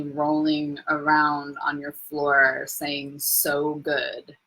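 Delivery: a lightly voiced Chris impression, slow and low-key; a half-hearted try at a friend's accent; imitating Chris. Quoting her friend Chris to her live viewers, lightly imitated. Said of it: "let me try to be Chris".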